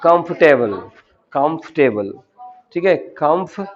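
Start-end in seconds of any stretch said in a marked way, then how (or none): 0.0-2.1 कंफर्टेबल squeezed to three syllables, "kumf-te-bul"; कंफर्टेबल spoken as the correct model word; correct pronunciation of comfortable. Shown as a demonstration. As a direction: model कंफर्टेबल with the middle vowel dropped. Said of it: "लेकिन होता वो है".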